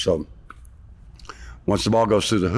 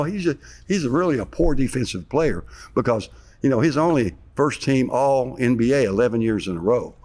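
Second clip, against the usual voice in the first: heavy sarcasm, pitched up; mock criticism of a star player, voice raised high; sarcastic; 5 semitones higher than usual. Real, not acted. Former player mock-running down his star teammate, sarcastic. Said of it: "I'm being very sarcastic there".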